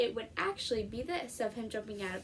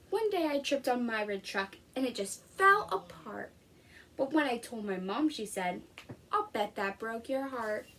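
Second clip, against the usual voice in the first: lively picture-book read-aloud; reading to children. Acted. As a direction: read it to a class of young kids. Teacher reads picture book aloud.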